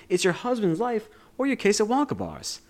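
high-pitched Northeastern detective; urgent put-on Northeastern American voice; Northeastern US accent. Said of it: "this very, I don't know what accent".

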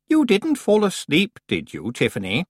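Anagramma teasing Tiffany, hammed-up playful. A narrator's reading. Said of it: "in what she probably thought was a playful voice".

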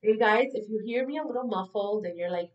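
blocked nose, congested voice; talking through a stuffy nose; stuffed-up nose. Real, not acted. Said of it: "it's because I'm stuffed up".

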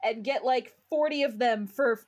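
lightly voiced TV pitchman; a hint of an infomercial hype; home shopping host. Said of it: "the ads that I had to watch".

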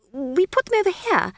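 high, flustered, stammering wizard; a jittery young wizard voice; nervous wizard. A narrator's reading. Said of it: "backing away".

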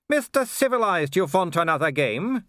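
high, excited taunting villain voice; taunting werewolf villain. Acted. Werewolf goading the watchman into another game, high and taunting. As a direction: challenge your enemy, pitched well up.

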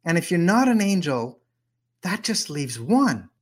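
hammed-up alarm; mock freak-out. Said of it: "Rumi goes into full-on freak-out mode".

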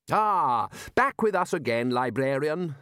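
Ridcully, hearty greeting. Acted. Ridcully to the returning librarian, hearty greeting. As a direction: greet with a big opening burst.

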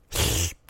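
quick soft chuckle; brief laugh; short laugh. Real, not acted.

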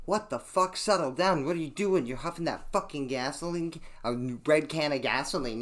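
retold freaked-out yelling at a gas huffer; alarmed yell. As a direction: shout at him to stop, half mock. Yelling at friend huffing gasoline.

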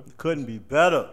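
loud, slow, emphatic; loud sharp voice. Real, not acted. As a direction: belt it out slow and proud. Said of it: "Stop yelling at me, bro".

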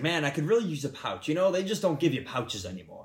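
exuberant Southern gentleman, lightly imitated; Southern accent. Caddie quoting golfer who wants a pouch, Southern accent. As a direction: imitate a chatty Southern man. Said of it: "He was, like, a Southern guy".

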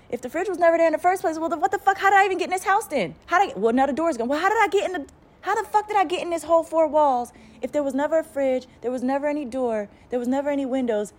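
high, exasperated rant as the Sim; baffled outrage. Pretend. A confused Sim ranting at the player, high and exasperated. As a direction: pitch up and demand answers, baffled.

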